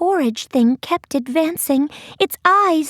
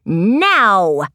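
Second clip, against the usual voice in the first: long, low-pitched battle order; shouted command; 7 semitones lower than usual. A narrator's reading. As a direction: let one word swell out as a command. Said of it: "and then shouted".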